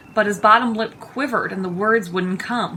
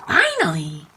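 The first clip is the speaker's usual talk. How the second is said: low creature voice; 4 semitones lower, 3 dB louder than usual. A narrator's reading. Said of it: "said a voice".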